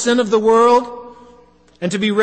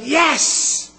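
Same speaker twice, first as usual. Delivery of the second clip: joyful cheer; 4 semitones higher than usual. Pretend. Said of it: "We, we let out a big".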